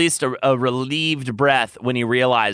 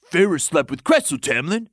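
exclaiming; 4 semitones higher than usual. Acted. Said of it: "Lucien exclaimed".

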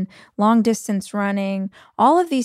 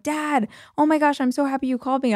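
gushing to dad; 5 semitones higher, faster than usual. Retold or imitated.

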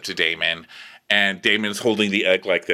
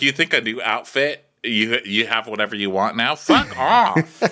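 mock indignation; 2 semitones higher than usual. Woman scolding the prince, mock indignation. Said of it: "she gets all mad".

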